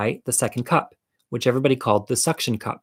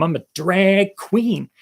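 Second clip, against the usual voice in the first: haughty retort; 8 semitones higher, much slower than usual. Retold or imitated. Snapping back at the hecklers.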